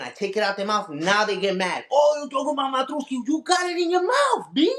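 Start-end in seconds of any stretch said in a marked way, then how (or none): 1.9-4.7 mocking voice. Mocking the haters' reply.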